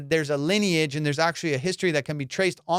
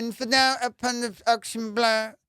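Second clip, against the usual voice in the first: high-pitched affected auction-house voice; fancy auctioneer; 6 semitones higher than usual. Retold or imitated. Comic imitating an auctioneer who sells art for millions, fancy voice. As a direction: put on a grand, fancy caller's voice. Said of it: "if the auctioneer talks like that".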